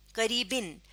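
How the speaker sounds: قریبن ending in a short i, "-bin"; pron with zer: bin. Shown as a demonstration. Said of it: "پھر ہم اس کو بن پڑھتے". (قریبن کا آخر زیر سے، "بِن")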